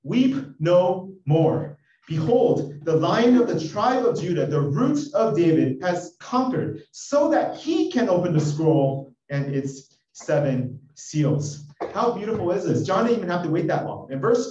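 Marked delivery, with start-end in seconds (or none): 0.0-11.7 slow, loud, ringing announcement of victory; triumphant proclamation. Acted. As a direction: proclaim it like a herald, drawing out each phrase. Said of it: "one of the elders said to me".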